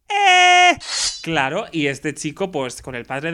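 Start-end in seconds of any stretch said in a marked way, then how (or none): 0.1-0.8 high, loud protective shout; protesting father. Acted. Protective father hears boy compliment his daughter, outraged shout. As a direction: cut the boy off with a sharp yell. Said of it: "Y el padre dice".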